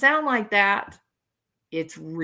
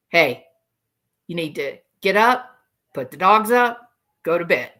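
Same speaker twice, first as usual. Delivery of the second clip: louder, firm commanding order; directive; 3 semitones lower, 4 dB louder than usual. Retold or imitated. Host replays the husband's command, firm and louder. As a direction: bark it like a no-nonsense order. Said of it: "Those are not the words".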